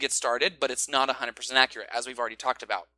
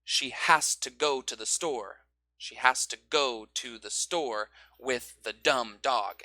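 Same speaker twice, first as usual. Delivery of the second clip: slow, with "go" stressed; stress rhythm; 2 semitones lower, slower than usual. Shown as a demonstration. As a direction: lean on the stressed beats. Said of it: "A, B, C rhythm".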